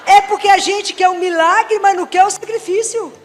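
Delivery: laughing. Real, not acted.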